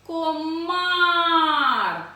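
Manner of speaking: long loud call, "Комар" stretched on the last vowel. Shown as a demonstration. Teacher showing where stress falls, calling out drawn-out. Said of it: "Покликали комара".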